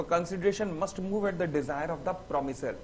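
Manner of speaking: very slow, every word spaced out; slow dictation. Shown as a demonstration. Teacher reading the definition aloud for notes, very slowly.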